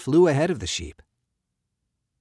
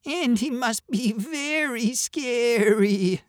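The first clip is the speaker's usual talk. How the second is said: high, slow, frightened sheep; stammering, shivering sheep; 12 semitones higher, slower than usual. A narrator's reading. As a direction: bleat it with a shiver of fear. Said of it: "the sheep stammered, starting to shiver".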